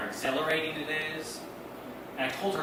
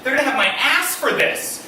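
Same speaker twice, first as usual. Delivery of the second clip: rising, faster panic; panicked inner voice; 7 semitones higher, 8 dB louder than usual. Retold or imitated. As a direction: spiral into nervous panic. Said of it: "I'm like".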